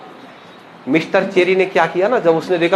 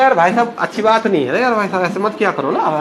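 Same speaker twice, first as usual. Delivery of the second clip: mock sweet talk. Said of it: "ऐसे प्यार से बोल रहा".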